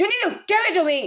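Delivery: curt, precise angry tone. Demonstrating to listeners how he sounds when angry: angry voice. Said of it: "That's my angry voice".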